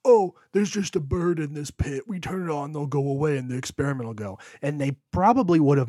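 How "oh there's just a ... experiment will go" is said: higher, louder, offhand scientist voice, speeding up at the end; tossing off the scientists' careless plan; mock scientists. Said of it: "these scientists go".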